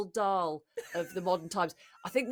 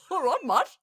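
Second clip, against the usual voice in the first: higher mock-Aussie drifting towards South African; botched Australian accent; 7 semitones higher, 6 dB louder than usual. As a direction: badly fake a matey Australian accent. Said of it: "I think I've gone South African".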